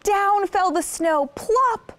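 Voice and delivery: lively storytelling. A narrator's reading. Snow drops on Peter.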